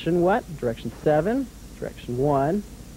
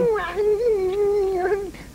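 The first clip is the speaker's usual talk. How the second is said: puppet giggle. Acted. Puppet dragon laughs at host.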